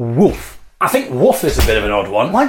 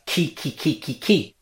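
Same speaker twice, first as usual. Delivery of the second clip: soft Greek rooster call; 7 dB quieter than usual. Shown as a demonstration. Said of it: "the sound that a cockerel makes".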